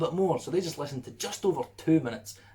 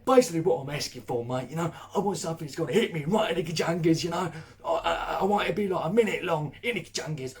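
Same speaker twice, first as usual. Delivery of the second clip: louder, higher laddish British rant; hammed-up British accent; 4 semitones higher, 5 dB louder than usual. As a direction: demand punch like a rowdy Brit. Continues British reviewer voice.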